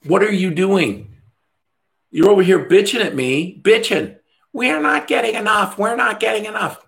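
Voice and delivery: high, exasperated mock rant. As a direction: act out losing patience with a client. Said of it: "I'm like".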